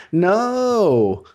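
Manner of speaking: long, high, loud no; laughing refusal. Real, not acted. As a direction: draw out a big amused refusal, high and loud. Refusing a request to do impression.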